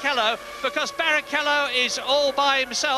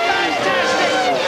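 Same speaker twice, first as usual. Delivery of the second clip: high, drawn-out gasp of joy; breathless excitement; 5 dB louder, much slower than usual. Real, not acted. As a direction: stretch it out in awe. Overtake called live.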